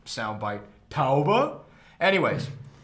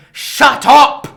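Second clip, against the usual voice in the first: loud Cockney shout, higher pitched; Cockney mother yell; 7 semitones higher, 10 dB louder, slower than usual. Retold or imitated. Mother scolding her singing son, loud Cockney yell. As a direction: bark it like a furious Cockney mum. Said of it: "in that accent".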